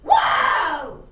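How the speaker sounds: loud squawked horse calls; parrot shouting. Acted. Parrot mimicking boatmen to fool the ponies, squawked loud. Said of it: "Polly calling out".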